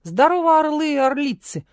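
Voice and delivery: loud, high hearty hello; booming greeting. A narrator's reading. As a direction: boom it out to the crowd. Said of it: "громогласно поприветствовал он". (громогласное приветствие)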